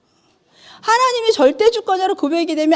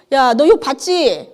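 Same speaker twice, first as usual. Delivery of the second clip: slow, proud boast; God boasting to Satan about Job, slow and proud; proud and confident; 3 dB louder, slower than usual. Retold or imitated. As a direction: show him off, taking your time. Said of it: "하나님이 너무 당당하게".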